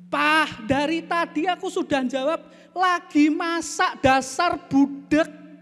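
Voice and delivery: high, loud, exasperated scolding; angry wife. Acted. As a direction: snap at a deaf husband, drawing out the insult. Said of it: "istrinya balik sambil marah-marah". (istri marah-marah, suara tinggi)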